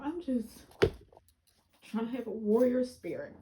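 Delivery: words breaking into real laughter; laughing through words. Real, not acted. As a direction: try to talk but the laugh wins. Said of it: "I love laughing".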